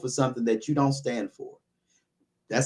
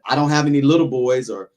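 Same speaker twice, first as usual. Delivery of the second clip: ordinary talk, nothing marked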